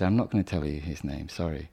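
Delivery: retold low, subdued refusal; quiet, sad refusal. Poet refusing his student a name, quiet and a bit sad. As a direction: let it sink softly on the apology, as if disappointed. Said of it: "he went all quiet and looked a bit sad".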